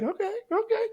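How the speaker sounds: very high, giddy okay okay; eager. Retold or imitated. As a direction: squeal it like a thrilled friend. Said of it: "And he's like".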